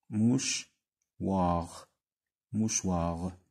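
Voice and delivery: موشوار drawn out very slowly, shwar stretched; slow model word. Shown as a demonstration. Teacher to pupils, slow model of mouchoir.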